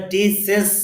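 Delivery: টিচেস slowly, ending in "-es"; drawn-out টিচেস with "-es" at the end; common mispronunciation. Shown as a demonstration. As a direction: show the faulty টিচেস with an e in its last syllable. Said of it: "এরকম হবে না".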